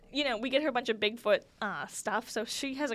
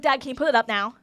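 put-on eager kid plea; 11 dB louder than usual. Kid begging dad for trampoline.

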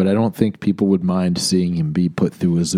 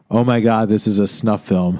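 amused delight. Pretend. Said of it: "And say instead".

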